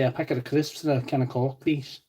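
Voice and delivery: attempted Scouse accent, badly done. Shown as a demonstration. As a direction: do a terrible Scouse impression. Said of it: "can I do a Scouse accent?".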